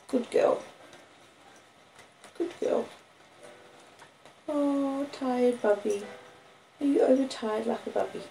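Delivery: high, hushed doting praise; soft praise. Real, not acted. Owner praising her sleepy puppy softly, high and hushed. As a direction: coo praise to the tired dog.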